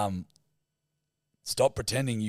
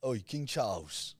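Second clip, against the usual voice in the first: slow British heckle at talking volume; British accent demo; 3 dB quieter than usual. Shown as a demonstration. Co-host giving the actor the accent, slow British heckle. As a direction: model a working-class British "Oi", drawn out. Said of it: "Give me a little bit".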